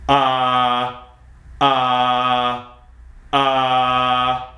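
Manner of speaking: "Ah" held steady at speaking pitch, unsung; raw drill sound. Shown as a demonstration. Coach leads repeat after me, raw steady "Ah". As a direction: sustain each "ah" plainly on a level tone. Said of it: "we want a nice raw sound".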